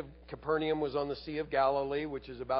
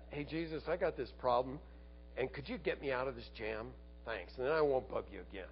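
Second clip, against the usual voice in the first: mock casual asking, trailing softer; offhand request; 6 dB quieter, faster than usual. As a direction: imitate a breezy favour-seeker. Voices man's offhand request.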